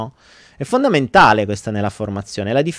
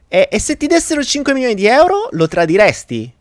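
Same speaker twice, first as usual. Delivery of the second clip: put-on child asking; 9 semitones higher, 3 dB louder than usual. Pierino asks sister.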